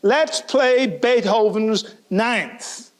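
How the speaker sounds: rally the band to pull together; a conductor urging the musicians; conductor rallying the orchestra. Retold or imitated. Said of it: "And he said".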